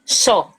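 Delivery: "xó" com som de CH, como "chó"; xó como em Costa Rica. Shown as a demonstration. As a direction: diga "xó" com X chiado, igual a CH. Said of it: "Como se fosse C H O". ("xó" pronunciado com CH chiado)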